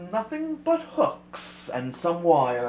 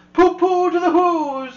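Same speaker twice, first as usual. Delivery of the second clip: high, loud, laughing gloat; the Grinch gloating over the sleeping Whos, laughing loudly; gleeful laughing sneer; 10 semitones higher, 8 dB louder than usual. A narrator's reading. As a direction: crow it with a cackle. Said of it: "he was grinchiously humming".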